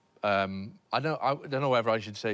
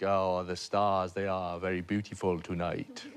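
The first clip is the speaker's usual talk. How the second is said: put-on woo her in a half-hearted French accent, trailing softer; poor French accent; 6 semitones lower, 3 dB quieter than usual. Comedian re-enacts wooing a Swedish girl on a hotel roof, bad French accent. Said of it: "before we even hear it in French accent".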